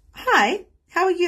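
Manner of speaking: high, loud singsong hello; exaggerated high-pitched greeting; perky greeting. Acts greeting someone after sending energy.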